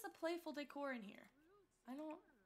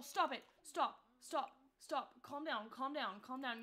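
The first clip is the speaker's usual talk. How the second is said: louder urgent stop commands; urgent calling out; 6 dB louder than usual. Real, not acted. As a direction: snap at her to calm down. Scolding hysterical Sim.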